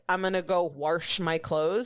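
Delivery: wash said as "warsh"; wash with added R. Retold or imitated. Mimicking relatives who add an R, wash as "warsh". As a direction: slip an R into wash. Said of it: "people add an R".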